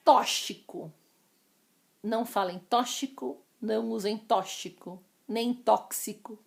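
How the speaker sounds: tóxico with sh; tóxico said as tó-shi-co; wrong form. Shown as a demonstration. Teacher listing the mistake. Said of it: "que é o correto na palavra".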